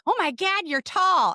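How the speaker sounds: high, excited fan gasp; surprised fan. Retold or imitated. Listeners on podcast tour, a high, lightly surprised gush. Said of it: "listeners say to me is".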